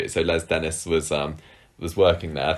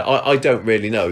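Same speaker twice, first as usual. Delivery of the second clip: Mavis impression; 3 semitones higher, 4 dB louder than usual. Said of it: "that's Mavis to a T".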